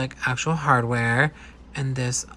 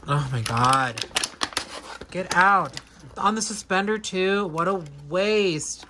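shocked disbelief; 4 semitones higher than usual. Real, not acted. Shocked at more plastic ties.

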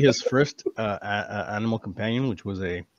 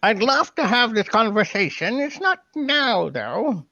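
pixie voice; 12 semitones higher, 4 dB louder, slower than usual. Acted. Pixie replies to the elf.

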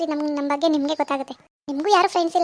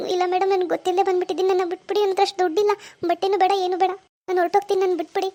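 higher-pitched worried begging; anxious pleading; 3 semitones higher than usual. Acted. Trapped shopper begging the shopkeeper, anxious pleading. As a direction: plead to be let go.

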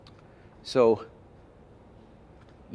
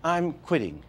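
I'm and quitting both hit higher; two accents; 5 semitones higher than usual. Shown as a demonstration. Demo of hitting the accents, stressing both words. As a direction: punch I'm, then punch quitting. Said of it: "Two accent".

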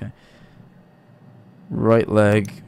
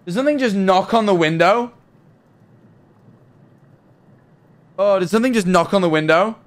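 nervous; 7 semitones higher than usual. Real, not acted. Hears a knock while on edge.

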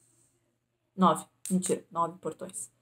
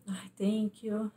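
relieved thanks; 3 dB quieter, much slower than usual. Retold or imitated. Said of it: "E eu".

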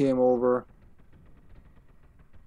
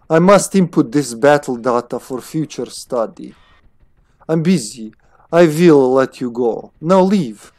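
put-on scientist with a Slavic accent; crisp character lines in a Slavic accent. Busy scientist dismissing the player, Slavic accent. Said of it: "she's not fucking Slavic".

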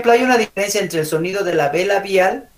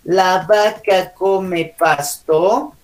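frase de ejemplo; 3 semitones higher, much slower than usual. Shown as a demonstration. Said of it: "no es lo mismo decir".

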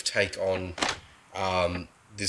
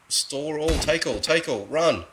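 being chased; 7 semitones higher, slower than usual. Real, not acted. Grabbing body, fleeing danger.

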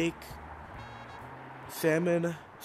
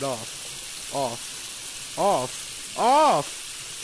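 building panic; much slower than usual. Real, not acted. Frantically turning something off.

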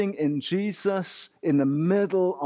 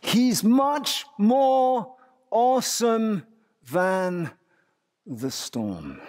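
awed proclamation; 4 semitones higher, much slower than usual. Real, not acted. Preacher proclaiming Jesus' greatness.

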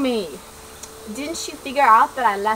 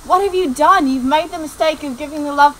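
angry outburst; 3 semitones higher, 5 dB louder than usual. Acted. Master scolds servant's potion mistake.

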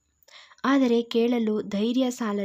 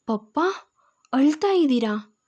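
anxious asking; 3 semitones higher than usual. Acted. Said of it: "ಆತಂಕದಿಂದ ಕೇಳಿದಳು".

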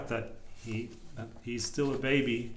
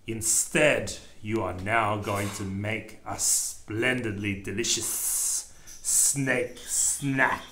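wicked snake; 3 semitones lower, slower than usual. Acted. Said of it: "hissed wickedly".

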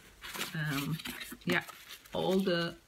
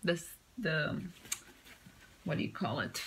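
lost for words mid-sentence; blanking on the word; brain freeze; 2 semitones lower, 4 dB quieter than usual. Real, not acted. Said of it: "Brain freeze again".

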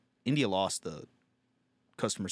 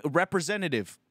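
raised-pitch interruption of a phone menu; mock yelling; 5 semitones higher than usual. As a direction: cut in on the robot, mildly insistent. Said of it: "How come yelling representative".

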